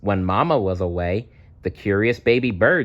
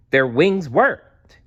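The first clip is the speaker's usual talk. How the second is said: louder, slow, triumphant reveal; triumphant wonder; 6 semitones higher, 5 dB louder, slower than usual. A narrator's reading. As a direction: savour the moment they fly. Triumphant narration moment.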